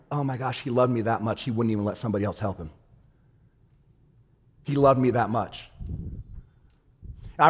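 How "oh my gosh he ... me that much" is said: awed hush. Retold or imitated. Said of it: "I'm like".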